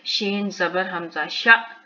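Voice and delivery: शा cut off sharply by a glottal stop; hamza jerk. Shown as a demonstration. Teacher spelling for learners, शा ending in a jerk. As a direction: stop the vowel of शा with a sudden catch. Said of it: "यहाँ फिर हम झटका देंगे".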